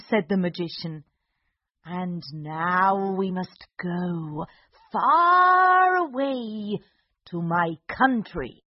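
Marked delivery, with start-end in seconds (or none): 1.8-8.6 slow, drawn-out villain voice; gloating villain. Acted. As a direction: stretch out far away menacingly. Magician gloating.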